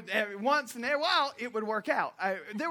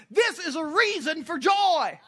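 loud, high, slow preaching; loud preacher's shout; 9 semitones higher, 10 dB louder, slower than usual. Real, not acted. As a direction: proclaim it to the whole church. Preacher rising to a climax.

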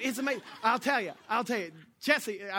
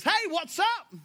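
high, loud mock casual greeting; 11 semitones higher, 6 dB louder, slower than usual. Jacob greeting the father after being tricked, mock casual and high. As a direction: toss it off like it's no big deal. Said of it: "goes to the father and says".

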